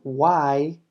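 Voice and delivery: very slow, falling on did; very slow classroom model, falling on did; slow teaching read. Shown as a demonstration. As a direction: draw the model out word by word. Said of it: "en este ejemplo".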